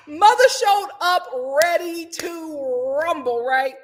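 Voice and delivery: slow, drawn-out fight-night hype; hyped announcer style. Acted. Recapper relishing Teresa's arrival after laughing, drawn-out hype. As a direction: stretch every word for effect.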